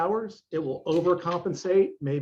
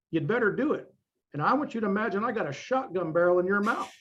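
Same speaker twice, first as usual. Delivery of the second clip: a lightly voiced intense coach, pitch climbing higher as the threats grow; imitating Mike Mentzer; 4 semitones higher than usual. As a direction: retell his shotgun pep talk, building up. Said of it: "this is the way he talked".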